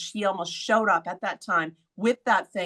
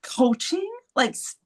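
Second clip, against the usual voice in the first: annoyed; 5 semitones higher than usual. Retold or imitated. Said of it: "so annoyed".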